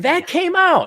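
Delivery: mock surprise. Mocking surprised echo.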